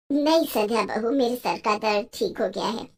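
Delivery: evasive mother-in-law. Acted.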